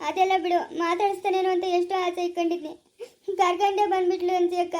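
plaintive retelling through tears; tearful complaint. Acted. Daughter telling her sister how mother made a fuss, tearful. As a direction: pour out the grievance, close to sobbing. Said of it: "ಯಾಕೆ ಅಳ್ತೀಯ".

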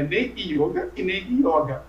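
"yoga" with closed o, then "yoga" with open o; both wrong yogas. Shown as a demonstration. Teacher rejecting both versions, "yoga" closed then open. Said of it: "Nenhum dos dois".

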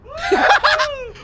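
squealing laughter burst; high-pitched laugh. Real, not acted. Reactor cracks up at car donuts, squealing laugh.

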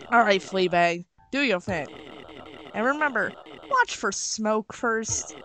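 bossy cook with a light Southern twang; somewhat Southern accent. Acted. Cook instructing Fleabag about smoke, somewhat Southern accent. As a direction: give kitchen orders in a mild Southern accent. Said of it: "this somewhat southern accent".

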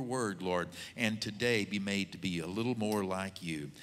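fervent prayer. Acted. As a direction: call on the Lord and let it build, then fold into a hushed amen. Pastor prays over the guest.

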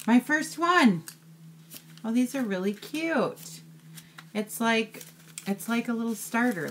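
high, moved voice on the edge of tears; choked up with delight at a surprise gift; touched, near tears. Real, not acted. Opening a handmade mini journal from a friend, teary and high. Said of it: "But you got a whole tear".

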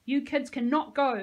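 narrated yell, not full force. A narrator's reading. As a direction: forbid them firmly and loudly. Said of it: "Missus Woolley yelled".

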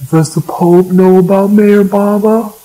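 imitated questioner, pitched high; calling out question. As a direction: call it up to a preacher from the crowd. Acts out an audience member's question.

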